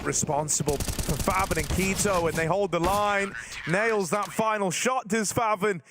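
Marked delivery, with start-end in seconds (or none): 2.3-5.8 esports caster. Real, not acted. Calls the round win.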